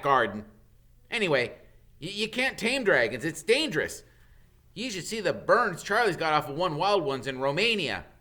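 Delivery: a hint of an excited boy; boy showing friends the dragon books; lightly voiced Ron. A narrator's reading. Ron's voice, higher.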